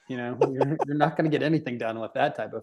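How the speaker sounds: bad Canadian accent, lightly done; a clumsy stab at a Canadian accent. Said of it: "That's a terrible Canadian accent".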